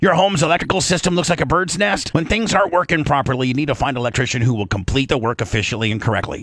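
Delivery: brisk, steady sponsor read. Acted. Radio host reads an electrician sponsor spot as an ad read. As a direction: read the spot clean and fast.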